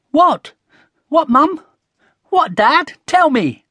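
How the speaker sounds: put-on high, loud, impatient child; eager questioning. A narrator's reading. Connie begging her parents to tell, eagerly impatient. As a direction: pester eagerly for the secret.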